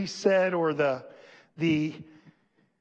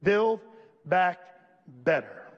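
mocking quote. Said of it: "saying these exact same three words".

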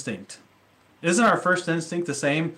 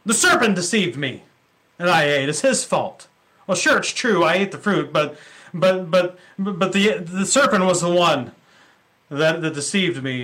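defensive Eve. Retold or imitated. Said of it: "she says".

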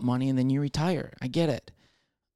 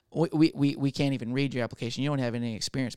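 put-on Southern accent; faster than usual. Employer dismissing an applicant without experience, light Southern accent. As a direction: refuse them with a hint of Southern accent. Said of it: "all my accents today are Southern".

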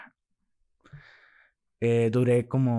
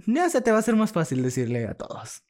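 imitating friend; 10 semitones higher, 3 dB louder than usual. Friend's advice retold.

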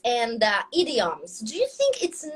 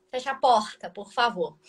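another Brazilian accent; 3 semitones lower than usual. Shown as a demonstration. Teacher contrasting Brazilian accents for a friend, another regional Brazilian accent. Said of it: "Outro sotaque, eles falam".

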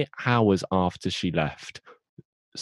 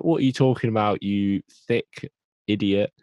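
mock exasperation; 3 semitones higher, 4 dB louder than usual. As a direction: dismiss her, dragging out the insult. Acting Rose's retort to her mother.

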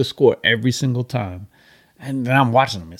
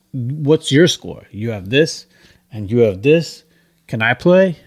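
put-on pushy teen voice; 4 dB louder, slower than usual. Annoying teenager voiced in story.

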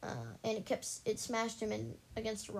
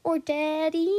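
put-on greedy kid voice; 6 semitones higher, 10 dB louder, slower than usual. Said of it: "don't I sound like such a greedy kid".

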